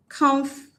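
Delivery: "comfortable" broken into COMF, pause, tuh-bl; syllable by syllable. Shown as a demonstration. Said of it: "I'm gonna transcribe now".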